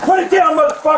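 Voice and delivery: furious high shout; shouted surrender demands. Real, not acted. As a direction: yell the command at full force. Police confront armed man.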